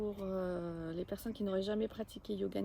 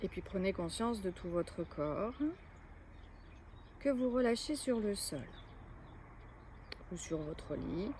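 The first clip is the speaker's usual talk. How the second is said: measured yoga nidra guidance with long pauses; guided relaxation. Acted. Yoga teacher guiding listeners to lie still and let go, guided relaxation. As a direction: lead them into rest, phrase by phrase, clearly voiced.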